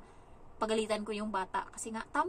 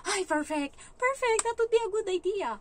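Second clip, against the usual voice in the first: high, loud sarcastic enthusiasm; mock delight; 11 semitones higher, 7 dB louder than usual. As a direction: gush with exaggerated fake approval. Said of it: "ganon talaga yung reaction ko". (malakas at eksaheradong kunwaring tuwa)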